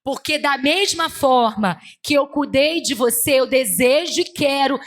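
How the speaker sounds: slow, drawn-out proclamation; commanding preacher in God's voice; forceful prophetic preaching. Retold or imitated. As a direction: declare God's promise with every word stretched. Preaches as God speaking.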